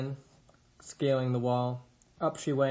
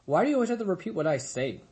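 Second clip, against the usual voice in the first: annoyed sister; 6 semitones higher, faster than usual. A narrator's reading. Sister snaps at brother.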